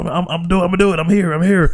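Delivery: flustered John imitation. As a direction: play a panicked teammate promising he's there. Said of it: "He's like".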